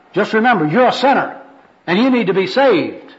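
high parting admonition; ringing gospel appeal; zealous street evangelist. Acted. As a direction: call a last warning after the sinner. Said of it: "This is the first personal worker".

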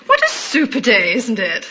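lightly imitated upper-class London accent; a touch of upper-class London vowels. The caller on the phone making weather talk, upper-class accent. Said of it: "here came this upper-class accent".

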